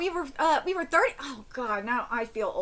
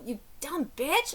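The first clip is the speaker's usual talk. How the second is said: softer, slower under-breath jab; muttered insult; 3 semitones higher, 5 dB quieter, slower than usual. Real, not acted. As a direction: mutter it with contempt.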